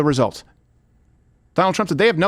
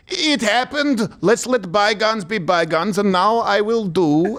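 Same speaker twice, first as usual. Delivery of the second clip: slow mock Ukrainian accent; Zelensky accent; slower than usual. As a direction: draw the words out in a put-on Ukrainian accent. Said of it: "I forgot to do the voice".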